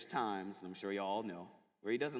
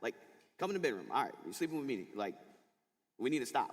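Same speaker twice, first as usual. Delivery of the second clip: frustrated pleading; 5 semitones higher than usual. Retold or imitated. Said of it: "but I get frustrated".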